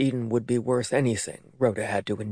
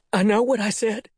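sharp, pressed hiss, higher; 10 semitones higher, 4 dB louder than usual. A narrator's reading. Mother hissing at her disbelieving daughter. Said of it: "Rhoda hissed".

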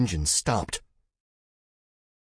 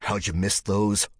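snarled; 2 semitones higher, 3 dB louder than usual. Acted. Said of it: "snarled Duggan".

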